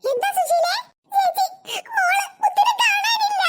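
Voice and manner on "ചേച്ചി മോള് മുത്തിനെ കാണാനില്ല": high, tearful alarm; distraught mother. Acted. Mother telling older woman her child is missing, distraught. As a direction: plead in panic, near tears.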